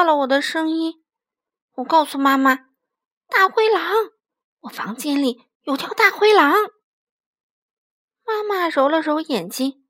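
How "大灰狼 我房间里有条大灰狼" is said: 孩子惊慌报警. Acted. 孩子夜里向妈妈报警.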